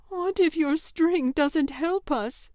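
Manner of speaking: high, slow, trembling question; scared sister doubting the string, slow and quivering; quivering with fear. Acted. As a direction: ask it like she might cry. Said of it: "her voice quivering with fear".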